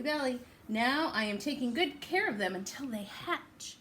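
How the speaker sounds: lively, sing-song storybook reading; picture-book read-aloud voice; reading to children. Acted. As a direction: read it to little ones with big rises.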